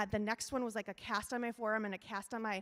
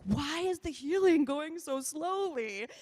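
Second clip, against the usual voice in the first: higher, slower, mock-bratty demand; sassy teen; 6 semitones higher, 4 dB louder, slower than usual. Teen gymnast demanding answers from her surgeon, sassy and higher. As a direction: play your thirteen-year-old self, impatient and sassy. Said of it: "I was a little sassy".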